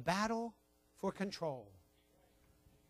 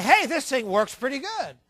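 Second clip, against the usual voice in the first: higher, louder pleased little schemer; scheming baby's voice; 4 semitones higher, 5 dB louder than usual. Acted. Baby discovers that crying works on parents, delighted high voice. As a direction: play a baby gleefully working the parents. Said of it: "He say".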